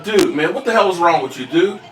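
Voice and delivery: mock angry rant. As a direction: tear into the troll, half joking. Cussing out a troll on stream.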